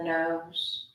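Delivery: measured breathing instructions with long pauses; guided meditation. Acted. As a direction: guide them breath by breath, unhurried phrases.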